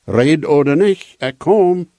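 calling out. Acted. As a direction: call it out like a child's seeker, without shouting. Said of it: "dan wordt hij roepen en zeggen".

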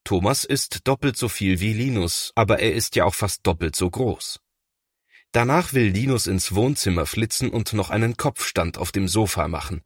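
usual speaking voice

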